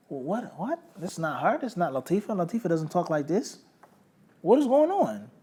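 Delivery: rising, questioning mock bewilderment; puzzled disbelief. Friend getting odd texts from sister's phone, puzzled disbelief. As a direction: act out baffled disbelief, questions climbing in pitch.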